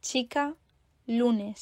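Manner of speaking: "Chica, lunes" stressed CHI-ca, LU-nes; accent sur l'avant-dernière. Shown as a demonstration. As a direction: stress the second-to-last syllable of "Chica, lunes". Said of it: "accentués sur l'avant-dernière syllabe". (« Chica, lunes » accentués sur l'avant-dernière syllabe)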